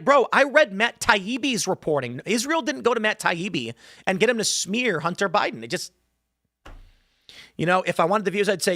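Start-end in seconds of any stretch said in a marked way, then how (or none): 0.0-5.6 raised, higher-pitched incredulous protest; acted-out exasperated objection; exasperated pushback. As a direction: argue back in mild disbelief. Acted incredulous reply to Tucker's claim.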